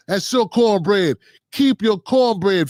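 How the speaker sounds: slow, weighty "That's your cornbread. Keep your cornbread," each word leaned on; slow catchphrase. Acted. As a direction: drag out "cornbread" and press it home like a motto. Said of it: "like I always say".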